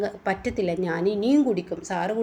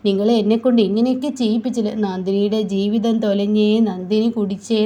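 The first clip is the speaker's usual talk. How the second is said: loud wailing; 5 dB louder than usual. Acted. Drunk Nandini wailing loudly at Surya. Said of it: "ഓർത്ത് വിളിച്ച് കരയുകയാണ്".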